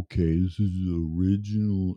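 a lightly put-on self-serious host voice; mock the earnest podcaster opening, only a little changed; mock stuffy podcaster. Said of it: "I gotta talk like this".

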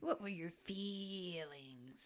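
breathy, slow whispered question; slow mock-movie whisper. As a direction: whisper it flat and slow, like a stiff actor. Mocking the stilted film line.

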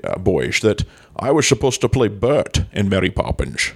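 lightly slurred Scottish star, s turning to sh; comic impression with slushy s sounds; Sean Connery. Promising co-hosts a comeback, hammed-up Connery impression. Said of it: "And Mister Connery".

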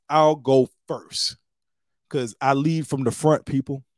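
hammed-up hero volunteering to slide first; mock brave leader. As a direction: puff up like a fearless captain. Speaker mock-heroically volunteering.

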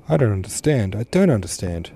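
mild, understated sobbing repeat; helpless sob. Acted. Daughter sobbing helplessly to her father, mild sobbing. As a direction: plead helplessly, a touch of tears. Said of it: "Tony sobbed helplessly".

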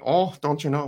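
high, loud mock Minnesotan accent. Podcaster mocking how true Minnesotans talk, exaggerated Minnesotan accent. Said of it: "Like, a true Minnesotian".

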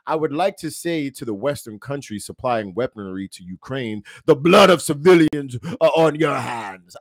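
put-on a half-hearted, failed Russian accent that fades in and out; reading the ambassador's quote in a weak Russian accent. Host quoting Russia's UN ambassador, half-hearted Russian accent. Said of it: "I wasn't expecting to do a Russian accent".

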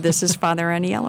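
light impression of an Italian priest; Italian accent. Priest introducing himself by phone, imitated Italian accent. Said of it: "That's a good imitation".

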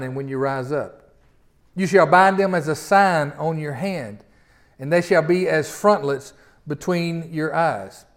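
slow, measured reading of the passage; solemn scripture reading. Acted. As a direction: read the verses slowly, as holy words. Reading Deuteronomy aloud.

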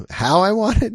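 high, loud rising question; rhetorical question. Shown as a demonstration. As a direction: throw it up high and loud, expecting a no. Second question, answered no.

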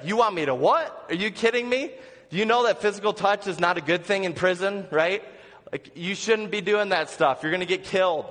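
incredulous protest. Retold or imitated.

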